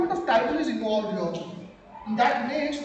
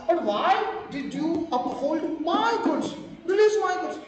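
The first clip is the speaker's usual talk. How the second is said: lightly acted indignant rebuttal; mildly heated courtroom-style protest; arguing back; 2 semitones higher than usual. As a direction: press your claim as the wronged buyer. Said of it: "Fabulous argument from the Z side".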